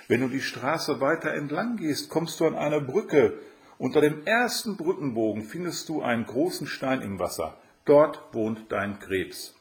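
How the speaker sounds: put-on helpful girl giving directions, pitched high; Aschenputtel. A narrator's reading.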